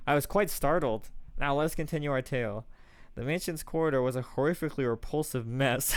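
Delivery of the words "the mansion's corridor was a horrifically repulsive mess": The mansion's corridor said while fighting a laugh; laughing through the line. Acted. Narrating the tale to Master, giggling through it. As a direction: corridor read with laughter breaking in. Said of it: "Anyway, as I was saying".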